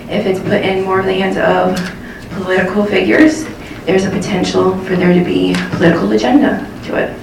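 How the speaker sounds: breathless from running here; panting between phrases; out of breath. Real, not acted. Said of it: "sorry, I'm out of breath 'cause I ran here".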